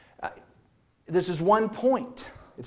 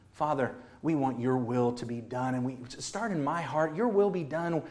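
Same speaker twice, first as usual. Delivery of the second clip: spoken prayer; 4 dB louder than usual. Acted. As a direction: pray it from the heart, growing in urgency. Prays aloud as an example.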